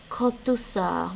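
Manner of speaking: slow careful Gaelic "kotusa"; Gaelic word. Shown as a demonstration. Learner reads Gaelic phrase from lesson, slowly. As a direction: draw out "kotusa" slowly, syllable by syllable. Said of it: "you would use".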